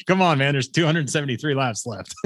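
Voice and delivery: high-pitched, worked-up race announcer; mock race call, starting high and easing down; Bagman impression. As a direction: imitate an announcer giving it his all. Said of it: "He gives it his all".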